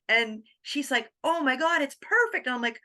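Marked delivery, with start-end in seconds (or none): 1.2-2.5 much higher, excited praise; gushing friend. Retold or imitated. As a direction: gush like a thrilled friend. Artist friend gushing, quoted.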